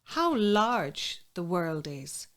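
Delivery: slow wonder of a newly hatched duckling; duckling's first words. Acted. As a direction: draw it out as a lightly voiced duckling. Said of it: "first words out of the mouth of the ducklings".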